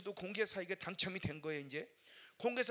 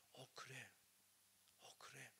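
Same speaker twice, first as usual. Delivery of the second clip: soft, hushed agreement; a listener quietly convinced by the sermon; quiet realization; 7 semitones lower, 20 dB quieter than usual. Retold or imitated. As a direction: murmur it to yourself.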